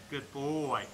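low, drawn-out praise for a dog. Real, not acted. Trainer to his dog after it comes, low praise. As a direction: drop the pitch and stretch the praise.

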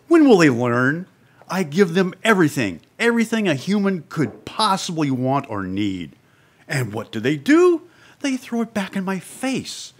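starting to lose it. Acted. Audition read of a producer whose stars won't learn, losing it. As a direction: build up as if losing your temper. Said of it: "as he builds up, he starts to lose it".

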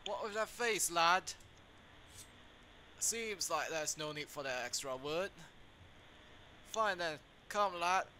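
hammed-up London villain accent; voicing a game villain in a bad London accent. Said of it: "what a terrible London accent".

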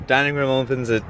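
put-on aggressive Boston accent; punchy Boston accent, leaning on eight. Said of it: "My aggressive Boston accent was unwarranted".

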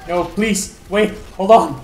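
high, loud mock pleading; panicked pleading. Real, not acted. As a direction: beg the enemy to stop. Pleading with enemy in game.

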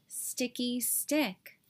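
slow, soft mope; fading sigh. Acted. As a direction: let it die away sadly. Sad refrain trailing.

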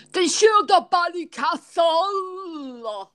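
high, drawn-out mock Irish accent; bad Irish impression, stretched and high; Jason. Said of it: "I'm doing an impression of you".

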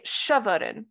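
shavarin with the stress on its first syllable, sha; initial stress on shavarin. Shown as a demonstration. Lecturer demonstrating the example word to the class, stress on sha. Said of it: "with initial stress".

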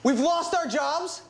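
high, slow, shocked question; learning of the firing, shocked. Acted. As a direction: disbelief rising in the voice.

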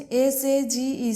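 spelled letter by letter. Shown as a demonstration. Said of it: "syllable ভেঙে ভেঙে বলে দিচ্ছি".

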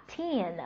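put-on "teen" as a full, long stressed syllable. Shown as a demonstration. Teacher showing the teen ending, stressed and drawn out. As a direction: hold the vowel of "teen". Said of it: "它是重音节单词".

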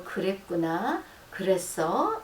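slow 그랬구나 with a rising tune; slow caring reply to girlfriend; gentle empathy. Shown as a demonstration. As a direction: coax softly with a rising 그랬구나. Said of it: "이건 아주 좋은 말이에요".

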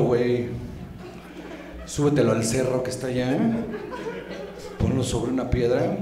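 low, heavy God voice, coldly demanding; God demanding proof. Acted. God orders Abraham to sacrifice Isaac, low and menacing. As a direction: lay down the order like a menacing deity. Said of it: "y le dijo".

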